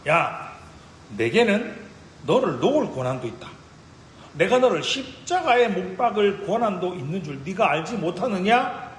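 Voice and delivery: preacher voicing a mildly menacing Pilate; acted threat from a ruler; threatening. Pilate threatens Jesus in court, imitated threat. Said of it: "예수님을 협박합니다".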